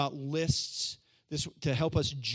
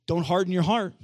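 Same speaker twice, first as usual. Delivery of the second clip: mock admonishment; 7 dB louder than usual. Acts stern rule-giving pastor.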